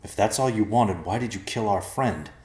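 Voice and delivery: mildly incredulous question. Acted. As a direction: press it with a touch of disbelief. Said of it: "Evercloud asked incredulously".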